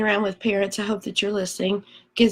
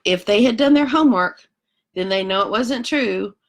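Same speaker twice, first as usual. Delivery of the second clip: huffy koala; 3 semitones higher than usual. Acted. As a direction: lecture them like a know-it-all koala. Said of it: "And he says".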